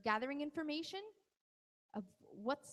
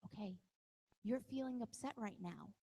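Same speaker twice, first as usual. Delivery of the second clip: calm validating; 3 semitones lower, 4 dB quieter than usual. Shown as a demonstration. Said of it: "you tell 'em".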